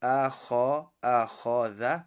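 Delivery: اخاذ with a thick, heavy خ; heavy Kha. Shown as a demonstration. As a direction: make the خ in اخاذ full and heavy. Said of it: "حرف خا".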